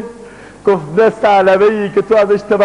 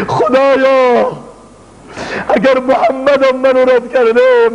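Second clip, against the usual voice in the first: slow, raised voice begging God's forgiveness; chanted penitent prayer; pleading prayer; 3 semitones higher than usual. Acted. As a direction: plead as a repentant sinner. Repentant prayer and poem to God.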